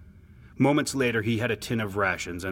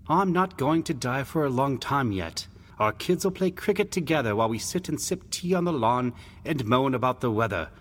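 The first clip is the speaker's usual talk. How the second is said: higher-voiced, upbeat brother; reassuring big brother; 5 semitones higher than usual. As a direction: promise a little brother a long future. Brother promises a long life.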